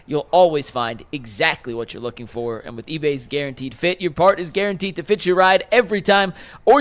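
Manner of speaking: polished commercial read with punched product names; sponsor ad read. Acted. Host reading eBay Motors spot to listeners, ad read. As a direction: sell it like a radio sponsor spot.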